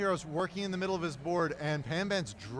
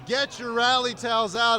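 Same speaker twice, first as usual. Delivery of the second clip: excited hype; 4 semitones higher than usual. Real, not acted. Hype commentator rallying viewers.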